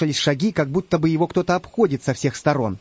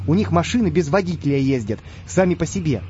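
enthusiastic. Acted. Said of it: "произнёс он восторженно".

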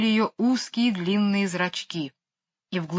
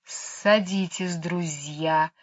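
slow regal hissing cobra; stately snake voice; much slower than usual. Acted. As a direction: grant them leave, slow and regal. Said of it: "величаво поклонившись". (величавая королевская кобра)

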